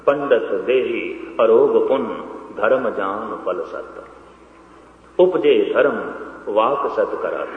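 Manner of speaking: slow, subdued scripture recitation; verse recitation. Acted. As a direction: recite the verse slowly, letting each phrase settle. (ਧੀਮੀ ਲੈਅ ਵਿੱਚ ਸ਼ਲੋਕ ਦਾ ਉਚਾਰਨ)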